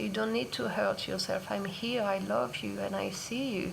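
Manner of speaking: put-on mother consoling her hurt inner child; loving inner mother. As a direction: hush and soothe the little one. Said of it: "my inner loving mother would take me and say".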